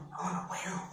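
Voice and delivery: breathless whisper of defeat; whispered despair. Pretend. Scared worker whispering defeat to herself. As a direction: whisper it as if giving up. Fearful inner voice, sinking confidence.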